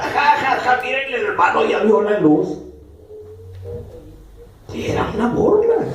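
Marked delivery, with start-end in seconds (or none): 0.0-2.6 laughing jeer, half-acted; mocking laughter. Friends bursting out laughing at the new believer, mild mock jeer. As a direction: laugh at the convert as you jeer. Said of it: "soltaban la carcajada".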